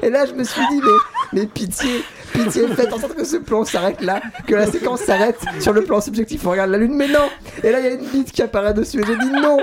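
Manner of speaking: can't keep a straight face telling it; giggling through the punchline; laughing while telling. Real, not acted. Telling absurd scene, cracking up.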